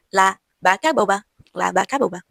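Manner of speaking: La vaca boba with b for both v and b, slow; Spanish b. Shown as a demonstration. Teacher slowly reading an example phrase. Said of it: "são soprados".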